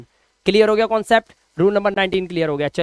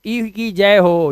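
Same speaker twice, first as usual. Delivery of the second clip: mock victory cheer; 3 semitones lower, much slower than usual. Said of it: "पहले वाले की जय जयकार होती है".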